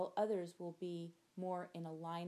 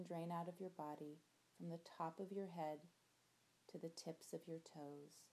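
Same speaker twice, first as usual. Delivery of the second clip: soft spa whisper; 5 dB quieter than usual. Acted. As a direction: lull them into relaxing, softly. Body-scan relaxation, soft and slow.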